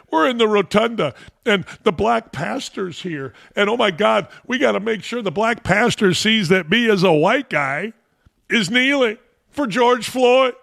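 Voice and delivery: high, fretful mock panic; sarcastic voice of a nervous kneeler; mocking anxious white guy. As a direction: lampoon him, pitch rising. Mocking a white guy's anxiety.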